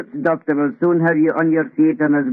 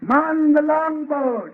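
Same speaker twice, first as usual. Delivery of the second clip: raised, slow deck command; captain rousing the crew to launch the boat; shouting orders; 8 semitones higher, slower than usual. Acted.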